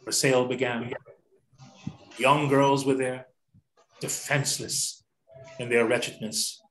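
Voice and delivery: measured poem reading with long pauses between phrases; solemn poem recitation. Acted. Reading The Slave Auction to the group, solemn recitation. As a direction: recite it gravely, phrase by phrase, letting each land.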